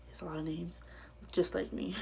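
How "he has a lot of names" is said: breathy half-whispered giggle through the words; amused, laughing at herself; laughing softly. Real, not acted. Telling viewers about her many names, laughing quietly.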